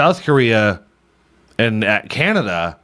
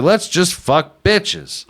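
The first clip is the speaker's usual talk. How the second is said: put-on Indian accent; 6 semitones higher, much slower than usual. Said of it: "I don't know why I went Indian there".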